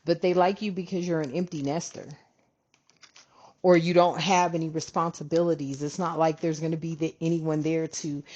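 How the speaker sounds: normal talking voice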